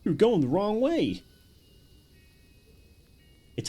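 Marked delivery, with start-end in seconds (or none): 0.0-1.2 high and slow, like a smug game prompt; a hint of a teasing system announcer; mock game voice. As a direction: parrot the pop-up in a put-on voice. Mimicking game pop-up voice.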